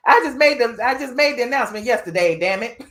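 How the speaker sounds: hammed-up impatient celebrity brush-off; imitating her irritated reply; mock snappy retort. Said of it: "She said".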